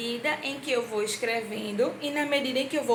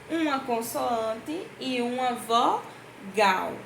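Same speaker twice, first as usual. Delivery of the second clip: slow teaching; much slower than usual. Shown as a demonstration. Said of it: "teacher stresses definition".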